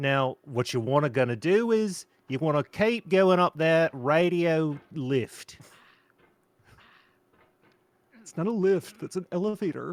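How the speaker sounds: put-on Australian accent. The speaker voices a figure giving instructions, in an australian accent. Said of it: "he's Australian, is he?".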